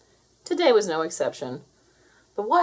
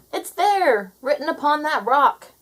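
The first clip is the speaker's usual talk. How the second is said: higher and louder, like a crowd of birds calling out; shouted in unison; 7 semitones higher, 6 dB louder than usual. A narrator's reading. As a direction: call it out together from above. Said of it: "The birds shouted in unison".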